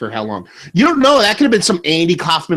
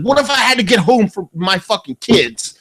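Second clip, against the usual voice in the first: higher, indignant driver imitation; mock an aggrieved driver's outburst; mild imitation of a yell; retold angry yelling; 5 semitones higher than usual. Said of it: "he's yelling at me".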